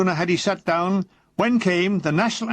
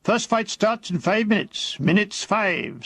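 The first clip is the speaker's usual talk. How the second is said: sergeant's best voice; 3 semitones higher than usual. Retold or imitated. Sergeant hurrying troops in, lightly put-on posh voice. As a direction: put on a touch of refinement to hurry them along. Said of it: "in his best voice".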